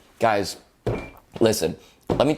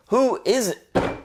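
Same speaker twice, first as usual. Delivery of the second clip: mock whiny; 11 semitones higher, much slower than usual. Exasperated question.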